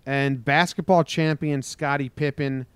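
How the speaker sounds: measured newscaster delivery; news headline read. Acted. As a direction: announce the closing headline.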